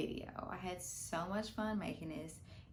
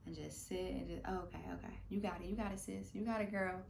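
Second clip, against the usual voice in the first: self-talk. Retold or imitated. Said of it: "and I say".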